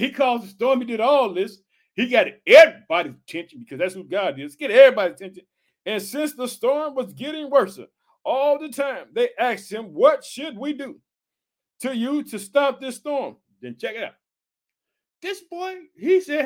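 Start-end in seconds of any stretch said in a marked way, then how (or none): 5.9-13.4 slow declamation in separated phrases; scripture reading. Acted. Preacher reading of the lots to the congregation, slow declamation. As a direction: read slowly, pausing between phrases.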